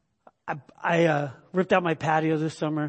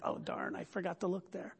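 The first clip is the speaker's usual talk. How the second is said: mock dismay; 13 dB quieter than usual. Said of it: "you're like".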